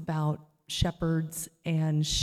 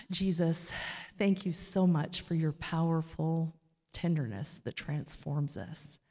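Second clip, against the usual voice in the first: closing prayer. Acted.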